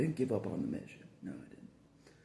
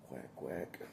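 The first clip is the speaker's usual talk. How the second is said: low, soft duck quacks; duck quack imitation; 10 semitones lower, 10 dB quieter than usual. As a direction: quack quietly like a cartoon duck. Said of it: "Donald Duck".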